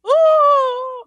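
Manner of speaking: high ooh. Retold or imitated. Co-host's shocked reaction imitated.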